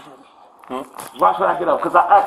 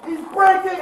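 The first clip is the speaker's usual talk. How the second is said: panicked cry; 5 semitones higher than usual. Real, not acted. Arm twisted, crying out.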